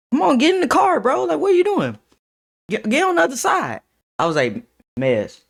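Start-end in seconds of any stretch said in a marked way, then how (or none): 0.1-3.8 high, urgent calling out to a friend; excited urging. Retold or imitated. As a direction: hurry him into the car with a pitched-up voice. Friend urging him into car.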